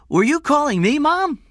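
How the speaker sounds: put-on high, loud child's voice; young boy. A narrator's reading. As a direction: innocent boy calling to his mother. Small boy's voice in story.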